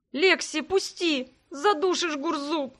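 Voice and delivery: squeaking. Acted. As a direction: squeak it out while being crushed in a hug. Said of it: "пропищала я". (пискляво, сдавленно в объятиях)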